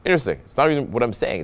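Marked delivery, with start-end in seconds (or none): 0.1-0.4 higher start on "interesting", falling away; interested. Shown as a demonstration. Coach showing how to play one word, interested. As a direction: make "interesting" sound intriguing. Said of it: "it's how I'm saying it".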